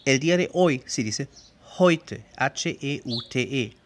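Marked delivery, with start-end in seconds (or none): 1.8-2.2 "heute" with eu said as "oi"; German diphthong. Shown as a demonstration. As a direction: say "heute" like "HOY-te". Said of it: "El segundo diptongo es hoy". («heute» con el diptongo «oi» alemán)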